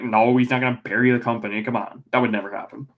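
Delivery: lightly acted brush-off in an everyday pitch; mild dismissal. Answering worried wrestling fans, mildly dismissive.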